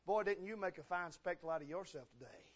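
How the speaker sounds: whispered sneer; mocking wife. Michal mocking David for his dancing, whispered. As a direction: hiss the jab under her breath. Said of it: "Michael said".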